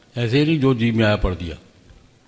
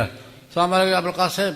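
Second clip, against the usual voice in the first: sly greeting; 7 semitones higher than usual. Retold or imitated. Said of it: "سمجھ گئی کیا کہا اس نے".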